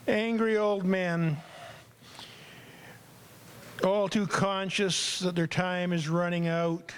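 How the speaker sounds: slow, measured poetry recital; poem reading. Acted. Host reads his poem to the room, measured and slow. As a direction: read the poem with grave weight.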